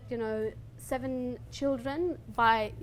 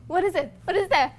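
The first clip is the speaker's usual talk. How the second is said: higher, louder wondering questions; amazed questions; 6 semitones higher, 8 dB louder than usual. Retold or imitated. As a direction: sound astonished at a new world. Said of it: "I'm like".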